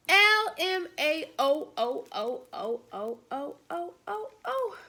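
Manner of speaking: slow, letter by letter, each O separate; super long spelled-out text. Retold or imitated. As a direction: drag out a long string of Os. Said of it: "Super long".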